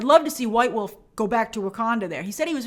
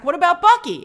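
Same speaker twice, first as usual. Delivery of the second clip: sharp retort; 7 semitones higher, 7 dB louder than usual. Retold or imitated. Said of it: "Sam shoots back".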